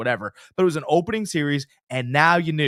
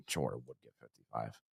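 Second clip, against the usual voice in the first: much quieter, "Jordan would get fifty-five" laughed through low and soft; laughing repeat; 17 dB quieter than usual. Shown as a demonstration. Host repeats the fans' claim laughing at it.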